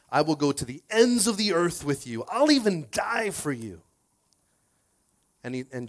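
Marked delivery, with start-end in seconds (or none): 0.1-3.8 impassioned vow, rising higher and stretched out; Peter's fervent declaration; bold pledge. Acted. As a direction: promise it grandly, building to the last words. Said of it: "Peter tells Jesus".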